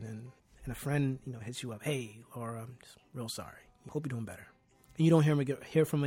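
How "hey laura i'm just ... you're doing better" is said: softer, offhand mock condolence, trailing to a whisper; limp condolence. Friend brushing off a grieving Laura, softly, half-hearted. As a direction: toss off a lazy sorry.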